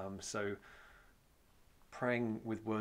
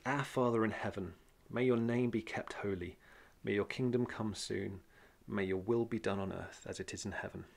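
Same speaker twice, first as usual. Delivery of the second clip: reading the prayer aloud, measured and a bit louder; scripture reading; 3 dB louder than usual. Shown as a demonstration. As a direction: read it out like scripture in church. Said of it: "So I'll just read it through".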